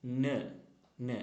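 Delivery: "n" as "nuh"; letter sound n. Shown as a demonstration. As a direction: say "n" as its sound, not "en". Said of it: "Pronunciation is".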